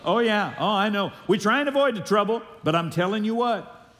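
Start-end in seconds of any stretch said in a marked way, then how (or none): 0.0-0.5 loud, bright "Oh, yeah" for the church to echo; call and response. Shown as a demonstration. Preacher showing the congregation their eager answer. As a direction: model the response they should shout back. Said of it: "Can I get a, "Oh, yeah"?".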